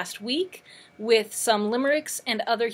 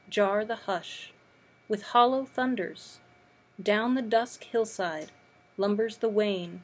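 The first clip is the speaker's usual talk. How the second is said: measured recital, a pause after each image; poetry reading. Acted. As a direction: recite it line by line, unhurried. Reads a poem aloud.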